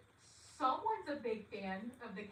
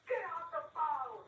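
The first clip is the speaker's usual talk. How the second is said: higher, imitated officer's call; 6 semitones higher, 4 dB louder than usual. Officer cuts off an inmate's phone call, barked order. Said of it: "you hear an officer say".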